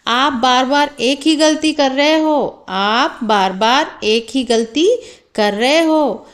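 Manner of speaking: demonstrated telling-off with firm emphasis; mildly scolding teacher. Shown as a demonstration. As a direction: correct a pupil insistently, mildly. Teacher voiced correcting a pupil. (बच्चे को समझाते हुए हल्की डाँट)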